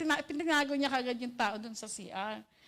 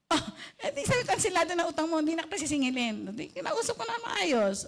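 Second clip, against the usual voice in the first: words broken by laughter; laughing; 3 semitones higher than usual. Real, not acted. Preacher laughing as she tells the congregation about forgiving, laughing. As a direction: laugh through the telling.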